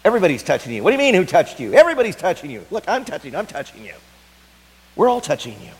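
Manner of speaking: loud, high, exasperated shouting at Jesus; exasperated disciples. Acted. Disciples scolding Jesus in the crowd, loud exasperation.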